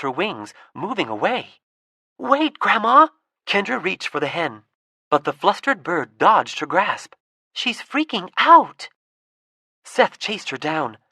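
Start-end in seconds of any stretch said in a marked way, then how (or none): 2.2-3.1 loud, high urgent call; high loud plea to stop. Acted. Kendra calls to fleeing hen. 7.5-8.9 loud, high and a bit slow; alarmed shout at the panicking bird; alarmed cry. Acted. Hen panics, Seth alarmed.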